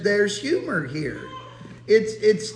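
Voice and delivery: chuckling through the words; laughing. Real, not acted. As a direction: let a soft laugh slip in. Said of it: "you have to laugh".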